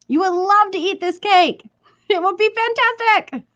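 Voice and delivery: high, hammed-up proper British accent. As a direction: gush in a playful mock-British accent. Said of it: "why that needs to be British".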